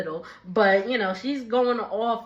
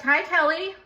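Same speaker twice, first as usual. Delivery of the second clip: mock greeting; 6 semitones higher than usual. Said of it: "she's like".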